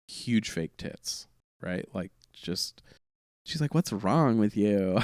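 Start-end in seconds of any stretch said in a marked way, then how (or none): 3.7-5.0 slow, drawn-out mock question; imitated lady's voice. Front-row lady asking the injured comic, slow imitated voice. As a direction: lightly put on her voice, dragging the words. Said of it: "if that's how she said it".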